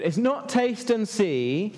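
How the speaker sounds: NOT stressed and stretched out slowly. Shown as a demonstration. Preacher correcting a reading of the verse, NOT stressed. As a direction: lean on the word "not", drawn out. Contrasts wrong and right readings.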